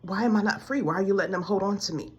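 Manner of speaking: a worn-out prayer that swells into despair; desperate plea. Retold or imitated. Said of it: "I said".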